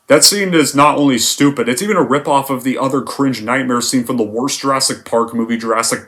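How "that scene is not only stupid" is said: normal talking voice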